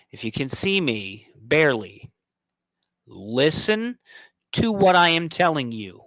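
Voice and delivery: slow, commanding address to fans; stern lecture. Acted. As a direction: lay down the law, slowly. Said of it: "come out there and say".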